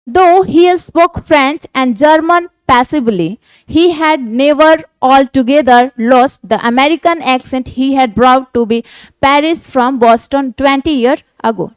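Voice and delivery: slow, deliberate read of the textbook passage; slow reading aloud. Shown as a demonstration. Teacher reading the story aloud slowly to students. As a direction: read each English phrase out slowly for the class.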